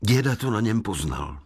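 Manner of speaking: ordinary delivery, nothing marked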